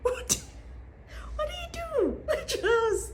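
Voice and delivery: high, laughing question; laughing disbelief. Real, not acted. Vlogger laughing at the kid's parents: laughing disbelief.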